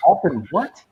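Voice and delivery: retold detective. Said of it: "the fucking detective goes".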